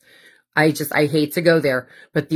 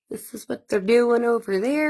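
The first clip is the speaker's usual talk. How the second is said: higher mock spy report rising at the end; goon reporting in; 6 semitones higher, 3 dB quieter than usual. A goon reporting back to base in a mock henchman voice, rising at the end. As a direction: play the snitch calling it in. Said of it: "Reporting back to base".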